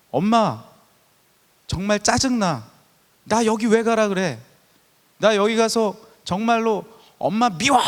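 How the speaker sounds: put-on slow, sulky child complaining to mom; a teen griping at mom on the way to camp; whiny child. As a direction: act out a grumpy kid, dragging the words. Child's complaint voiced in sermon.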